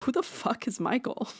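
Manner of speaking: asking through a laugh; puzzled, laughing question; laughing disbelief. Retold or imitated. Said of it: "we're all like".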